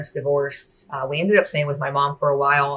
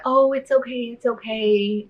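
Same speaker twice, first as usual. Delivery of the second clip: much higher, sing-song soothing; mock comforting; 8 semitones higher than usual. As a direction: soothe a crying child, lightly imitated. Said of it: "she tries to comfort me".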